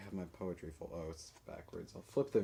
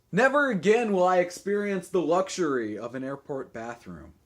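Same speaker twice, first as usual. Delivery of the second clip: poetry reading; 6 semitones higher, 10 dB louder than usual. Acted. Poet offers to ride shotgun, theatrical recitation. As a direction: open grandly, ease off line by line. Reads own poem aloud.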